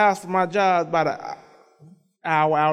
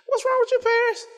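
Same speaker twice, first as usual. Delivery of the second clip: retold parental question. Retelling questioning his sulking daughter.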